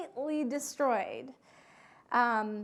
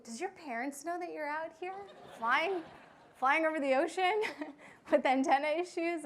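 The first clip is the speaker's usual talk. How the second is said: imitated disbelieving question, higher, breaking into a laugh; amused incredulity; 5 semitones higher, 5 dB louder than usual. Customs agent asks about the pilot's parents, amused mock disbelief. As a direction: get louder and more incredulous, laughing midway.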